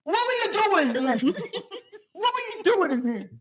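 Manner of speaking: put-on Nicole's Cajun accent, quoted with a laugh; a light Cajun twang, half laughing. Friend quoting Nicole's Cajun scolding, Cajun accent. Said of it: "what Nicole in her Cajun accent said".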